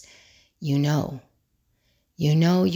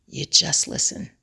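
whispered. Shown as a demonstration. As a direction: breathe the words with no voice.

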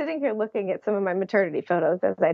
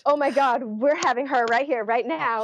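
higher, breathless disbelief; panicked excitement; 4 semitones higher than usual. Retold or imitated. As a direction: blurt it in a rush of shock. Realizing birth is happening now.

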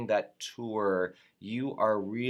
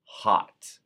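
shouted word; 6 dB louder than usual. Shown as a demonstration. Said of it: "all capital letters".

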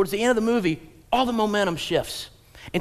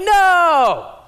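high loud no; shocked shout; 12 semitones higher, 11 dB louder than usual. Retold or imitated. Moviegoer shouting no at the screen. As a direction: yell in horror. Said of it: "you're like".

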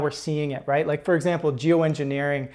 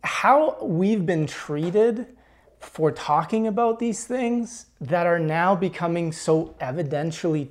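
slow and halting, moved close to tears; real emotion, words dragged out slowly; emotional; 2 semitones higher, slower than usual. Real, not acted. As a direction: let the feeling slow each phrase down. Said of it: "I apologize if I get a little bit emotional here".

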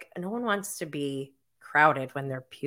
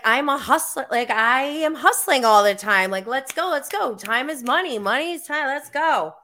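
mock hustle pep talk; 6 semitones higher, 3 dB louder than usual. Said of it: "I'm just always like".

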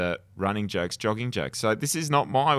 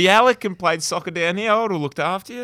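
higher, louder and quick, eager; excited; 8 semitones higher, 8 dB louder, faster than usual. Real, not acted. Co-host wishing Usain had visited, excited and fast. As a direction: rattle it off all fired up.

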